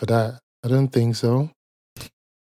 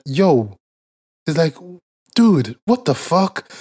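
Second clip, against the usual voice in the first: disbelief; 4 semitones higher, slower than usual. Real, not acted. Disbelief retold.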